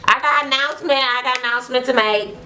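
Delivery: retold happy announcement. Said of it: "she is so happy".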